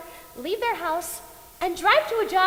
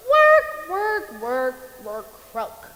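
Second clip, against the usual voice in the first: weary descending litany; 7 semitones lower, 5 dB louder, much slower than usual. Acted. Death mocking a life of nothing but work, sinking litany. Mock recital of a dreary life.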